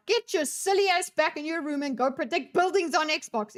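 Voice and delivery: put-on a touch of the exasperated parent ordering a child; scolding parent. Parent sending would-be rioter son back to his room, mock scolding. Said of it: "I'd be like".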